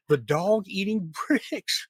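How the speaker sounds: laughing through the words; breaking into a laugh mid-line. Real, not acted. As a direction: chuckle out the last words, amused. Host amused by brick-eating dog.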